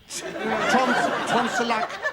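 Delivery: tripping over "Tons-" and "tonsillac-", breaking off mid-word; stumbling word. Real, not acted. Comic stumbling on the word "tonsillac-". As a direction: fumble the word "tonsillac-" and give up. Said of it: "I still can't say it".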